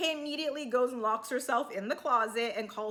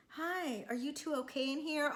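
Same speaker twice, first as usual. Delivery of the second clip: mock innocent; 2 semitones higher, 7 dB quieter than usual. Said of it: "she comes in all innocently".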